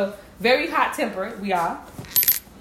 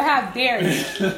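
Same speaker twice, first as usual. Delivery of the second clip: slow mock outrage; 3 dB louder, slower than usual. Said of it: "That's how I feel".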